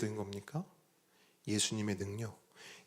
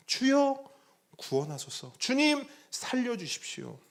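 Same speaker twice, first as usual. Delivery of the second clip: pleading disciples; 10 semitones higher than usual. Retold or imitated. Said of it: "제자들이 예수님께 소리쳤죠".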